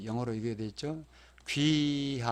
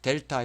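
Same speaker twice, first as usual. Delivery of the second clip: 델타 with the stress on 델; stress on first syllable; 7 dB louder than usual. Shown as a demonstration. Teacher showing code-word stress, 델타 stressed at the front. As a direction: lean on the opening 델 of 델타. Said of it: "앞에가 강세가 있습니다".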